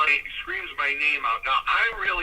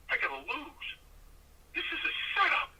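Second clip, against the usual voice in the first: very soft retold inner voice; hushed dismay; 11 semitones higher, 9 dB quieter than usual. Rookie realising he must lose, hushed mock dismay. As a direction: think it to yourself, much softer.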